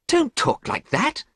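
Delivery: high, slow protest; urgent high-pitched plea; crying out. A narrator's reading. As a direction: cry out in pained protest. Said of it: "cried Basil".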